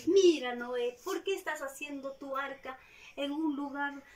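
teasing, mocking question; lightly voiced jeering neighbors. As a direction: taunt Noah. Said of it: "se burlaban".

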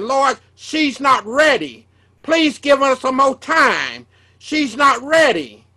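slow, mild tearful plea; pleading while crying. Retold or imitated. Preacher retelling his dream plea for his mother, slow and tearful. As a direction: beg slowly, a touch of sobbing held back. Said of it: "And I start crying, saying".

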